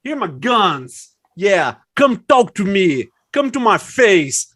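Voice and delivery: mock tough guy.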